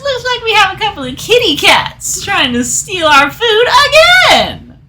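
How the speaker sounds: high, mocking sneer; taunting half elf.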